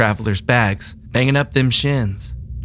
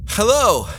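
high, hesitant, scared voice; calling out timidly to a ghost; nervous; 8 semitones higher than usual. Acted. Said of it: "I'm nervous".

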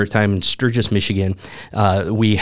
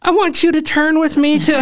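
much higher, louder, put-on preacher voice; his old pastor voice; 5 dB louder than usual. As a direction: ham up his young self's pulpit voice. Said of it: "and I sound like this".

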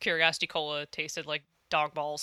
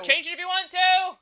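high mimicking echo; 11 semitones higher, 6 dB louder than usual. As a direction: copy it in a high voice.

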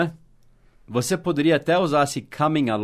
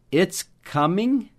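very slow, higher, stretching "coming"; slow model; 6 semitones higher, much slower than usual. Shown as a demonstration. Teacher slowly modelling "it's coming" for students. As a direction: draw "it's coming" out for learners. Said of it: "teacher models contracted form".

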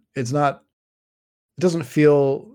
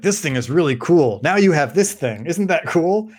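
mock-excited young dungeon master, pitched up; eager game master; 5 semitones higher, 4 dB louder than usual. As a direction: gush quickly as you show off a find. Recalls himself as twelve-year-old game master.

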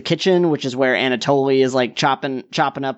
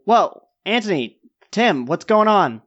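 calling from bathroom; 4 semitones higher than usual. Acted. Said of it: "a voice from the bathroom go".

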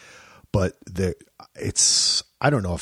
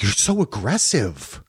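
slow mock accusation. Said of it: "And she'd be like".

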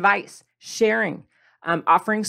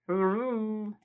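through a toy megaphone; megaphone effect; 8 dB quieter than usual. Shown as a demonstration. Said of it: "a megaphone effect here".

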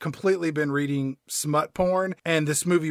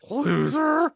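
put-on high, drawn-out teen jibe; put-on kid name-calling; the speaker's insult voice; 10 semitones higher than usual. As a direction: slip in a high-voiced taunt. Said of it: "the cough insult".

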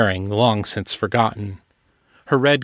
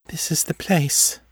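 hollow voice; 7 semitones higher, 3 dB quieter than usual. A narrator's reading. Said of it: "her voice hollow".

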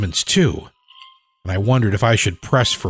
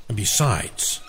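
through gritted teeth; 6 dB quieter, slower than usual. Acted. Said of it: "I said through my teeth".

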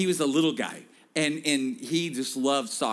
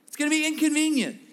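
preacher's call; 10 semitones higher, faster than usual. Shown as a demonstration. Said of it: "turn back to them and say".

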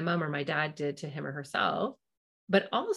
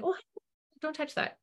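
higher, soft "oh honey"; sweet gentle warning; 10 semitones higher, 3 dB quieter than usual. Retold or imitated. Bank lady gently warning a four-year-old off the stapler. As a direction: coo a mild caution. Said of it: "She just said".

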